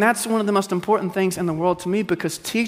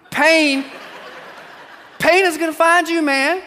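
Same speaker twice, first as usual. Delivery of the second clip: laughing emphasis; 11 semitones higher, slower than usual. Real, not acted. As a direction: hammer the word pain while laughing. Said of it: "repeats laughing".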